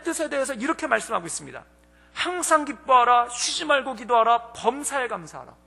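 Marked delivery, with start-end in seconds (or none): 2.1-5.5 scripture reading. Acted. Preacher reading the verse aloud to the congregation, emphatic.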